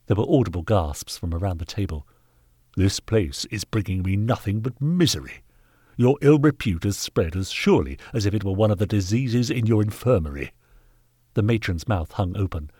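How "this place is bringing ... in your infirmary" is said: lightly voiced indignant gentleman; mounting disgust, held in check; stern knight, angry. Knight denouncing the workhouse to its master, mildly angry.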